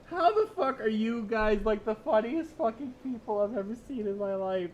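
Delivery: loud, amused exclaiming; excited amused. Real, not acted. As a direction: shout your delight at chat. Loud amused reaction to chat.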